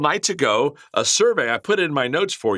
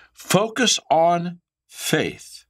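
"Focus on faith" drawn out very slowly, higher; slow urging; 5 semitones higher, much slower than usual. Real, not acted. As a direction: press "Focus" long and slow. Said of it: "listen to me".

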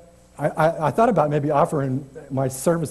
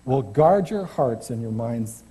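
scripture reading. Acted. Preacher reading Philippians to the congregation, measured scripture voice. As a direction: read the verses with gentle weight.

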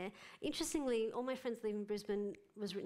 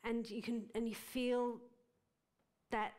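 ordinary talk

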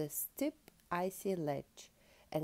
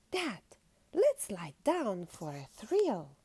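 little polar bear Patty; 3 semitones higher, 6 dB louder than usual. A narrator's reading. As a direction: call out eagerly to Dad. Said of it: "when Patty said".

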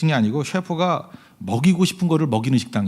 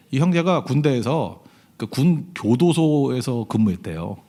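usual speaking voice

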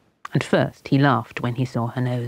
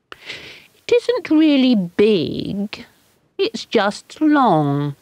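put-on small child's voice; 7 semitones higher, much slower than usual. A narrator's reading. Child voice defending the nose.

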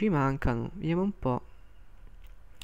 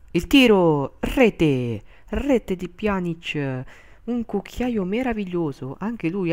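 breathless italian goal commentary; 4 semitones higher, 4 dB louder, much slower than usual. Real, not acted. Penalty goal call.

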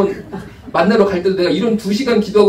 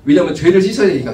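emphatic; 6 dB louder than usual. Acted. Preacher stresses need to repent.

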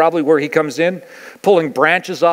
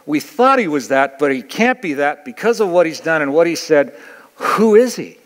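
confused crowd voice. Retold or imitated. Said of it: "they go".

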